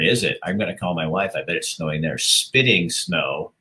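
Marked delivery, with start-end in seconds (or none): 2.2-3.5 mocking drawl. Host teasing a caller's report, slow mocking drawl. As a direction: drag out spitting snow slowly, teasing. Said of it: "I'm making fun of you".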